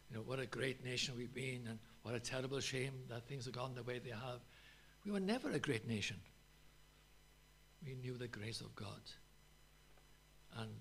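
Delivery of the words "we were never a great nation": emphatic preaching outburst. Real, not acted. Preacher rebuts national pride.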